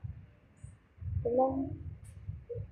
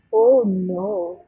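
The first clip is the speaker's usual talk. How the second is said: ordinary talk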